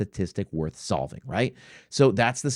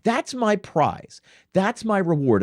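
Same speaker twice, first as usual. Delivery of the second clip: sarcastic; 8 semitones higher, slower than usual. Real, not acted. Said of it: "sarcastic about the reward".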